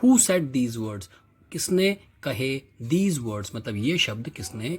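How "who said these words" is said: slow reading. Shown as a demonstration. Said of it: "Now कहता".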